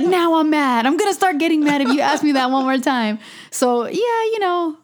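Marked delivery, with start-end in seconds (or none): 0.0-3.2 higher-pitched mock annoyance; mad. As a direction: act out a fed-up warning, lightly. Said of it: "And then I get mad".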